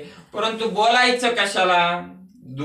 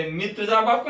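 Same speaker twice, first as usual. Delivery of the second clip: higher, rising boast of "मी तुझा बाप"; Brahma's claim; 4 semitones higher than usual. Acted. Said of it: "हे म्हणते".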